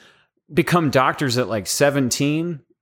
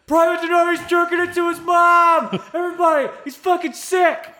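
mock shouting. Soldier spreading gossip to everybody, shouting. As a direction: holler it out for everyone to hear. Acting out someone shouting news down hall.

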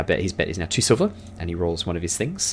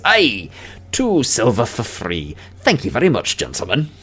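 gloating dwarf; 5 semitones higher than usual. Acted. Dwarf to busted gamblers, pleased gloating. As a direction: savour the easy winnings as a dwarf. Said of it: "The dwarf rolls a total of nine and goes".

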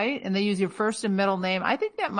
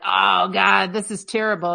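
imagined dismay; 5 dB louder than usual. Retold or imitated. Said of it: "you didn't feel like".

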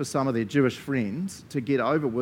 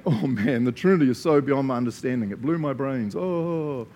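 mock overwhelmed, groaning out the words; exaggerated weary bafflement, ending on a groan; 3 dB louder than usual. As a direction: act out someone whose brain is blown. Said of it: "Instead of us going".

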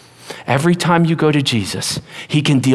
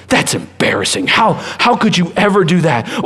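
shaming voice. Retold or imitated. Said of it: "Or even shame".

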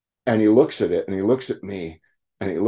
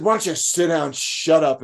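high, raised command; stern order; 8 semitones higher than usual. Retold or imitated. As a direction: order him to sit down. Bob orders him to sit.

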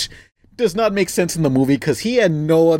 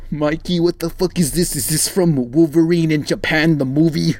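Splinter impression. Voicing Splinter.

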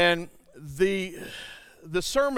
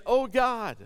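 mild imitation of a cry to God; crying out for help; 5 semitones higher than usual. Preacher voicing Jabez's prayer, mildly crying out. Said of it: "is crying out for help".

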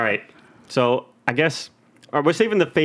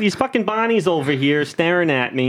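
put-on frog puppet with Boston accent; high warm-up, then Boston puppet frog; Kermit; 4 semitones higher than usual. Host proving it to co-hosts, Boston Kermit voice. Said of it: "can you do a Boston Kermit?".

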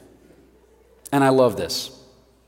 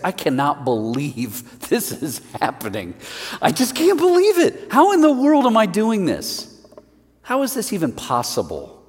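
Peter with a laugh, jumping much higher in disbelief; amazed Peter; 5 semitones higher than usual. Acted. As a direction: burst out in astonishment. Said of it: "He's like".

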